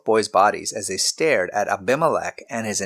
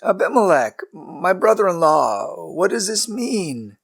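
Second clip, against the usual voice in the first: calling out; 9 semitones higher, slower than usual. A narrator's reading. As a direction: call across the distance to the king. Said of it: "Abraham called out".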